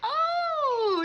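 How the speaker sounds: breathless delighted laugh; thrilled laugh. Acted. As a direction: gush with a laugh. Thrilled gasp at salon.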